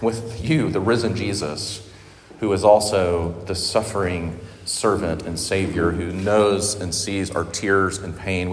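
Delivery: earnest closing prayer, steady and measured; pastoral prayer. Acted. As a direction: pray for the congregation, sincere and unhurried.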